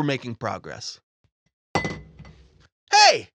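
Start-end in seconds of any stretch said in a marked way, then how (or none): 1.8-3.3 put-on high loud kid yell; shout. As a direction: yell it like a bratty child. Timmy shouts about water.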